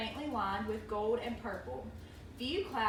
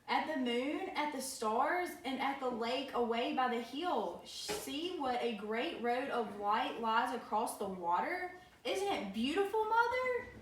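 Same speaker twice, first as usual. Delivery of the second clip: hammy stage actor. Acted. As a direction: gush like a rapt little girl. Child marvels at the sky.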